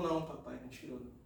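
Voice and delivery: soft, low pleading, imitated; mock tearful son. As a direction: act a crying boy very quietly, trailing away. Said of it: "aí ele chorando". (imitando o filho chorando, baixinho)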